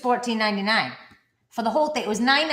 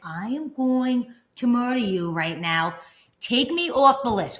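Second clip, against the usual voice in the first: mock threat; 2 semitones higher, slower than usual. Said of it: "I'm getting angry with him now".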